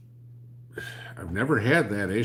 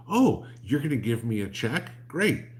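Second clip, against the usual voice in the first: mock governor; 5 semitones higher, 4 dB louder than usual. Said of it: "Bill Lee ... goes".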